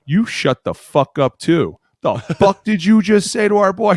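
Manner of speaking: imitated high-pitched shout at the player; mock outraged yell. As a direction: stick up for a teammate, exaggerated.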